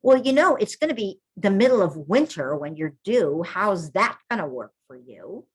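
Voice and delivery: playing the midwife who talks a client out of her plan; discouraging midwife. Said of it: "Rather than".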